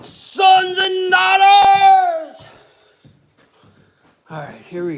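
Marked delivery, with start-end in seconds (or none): 0.0-2.4 slow, high, drawn-out shout; mock call. Summoning the children on Mother's Day, a long high call. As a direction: hold it long and high like a town crier. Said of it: "I suppose they should be going".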